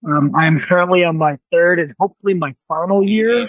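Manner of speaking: muffled, like a hand over the mouth. Real, not acted. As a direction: speak as if through a covered mic. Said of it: "you're a little muffled".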